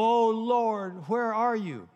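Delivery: high, loud mock plea to the Lord; half-laughing mock cry to God; desperate cry. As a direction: wail it up to heaven, hammed-up.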